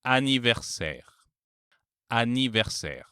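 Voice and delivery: anniversaire with a plain oral a, N sounded; anniversaire, no nasal vowel; non-nasal a. Shown as a demonstration. Teacher showing the exception with double N. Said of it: "this sound is no longer nasal".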